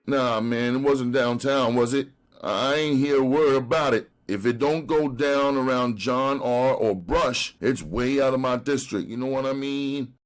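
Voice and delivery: high, pleading street hustler. Acted. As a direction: beg like a jailed junkie. Brown denies knowing.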